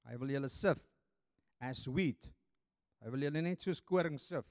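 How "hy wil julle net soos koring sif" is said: ordinary talk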